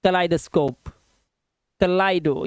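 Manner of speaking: "kaleidoscope", then just "kaleido", with an eye sound; long I sound. Shown as a demonstration. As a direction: model "kaleidoscope" as kuh-LIE-duh-scope. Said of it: "यहाँ पर आई की आवाज".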